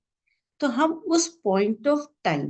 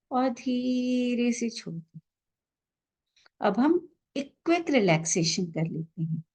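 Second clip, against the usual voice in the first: unhurried, calm meditation guide with long pauses; measured relaxation-session voice, leaving space after each instruction; guided meditation. Real, not acted. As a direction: guide listeners gently into relaxation, drawing out the breathing cues.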